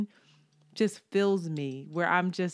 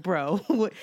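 laughing disbelief; 4 dB louder than usual. Retold or imitated.

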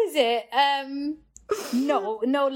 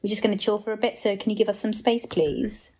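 acting all cool. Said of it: "acting all cool".

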